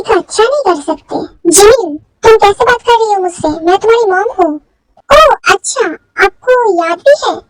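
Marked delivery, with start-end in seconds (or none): 5.1-7.4 sarcastic oh really. Acted. Daughter mocking mother's claim to be her mom, sarcastic.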